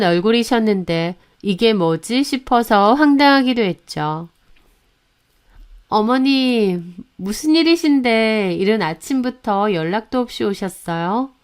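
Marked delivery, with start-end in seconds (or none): 5.9-11.3 lightly voiced, tentative inquiry; cautious question. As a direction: ask the elder carefully. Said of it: "제가 조심스럽게 묻자". (조심스럽게 묻는 말투)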